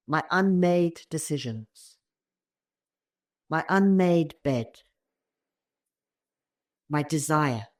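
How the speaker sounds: measured poem recital with pauses between lines; unhurried reading, phrase by phrase. A narrator's reading. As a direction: read the poem gently, letting each line land. Reads a poem aloud.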